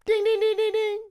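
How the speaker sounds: high, loud quiz bell chime; game show ding. Pretend. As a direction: ring it out like a correct-answer bell. Game show right answer bell.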